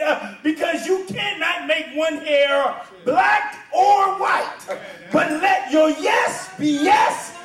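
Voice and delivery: ringing, emphatic pulpit reading; forceful scripture preaching. Acted. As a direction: drive each phrase home with punched key words.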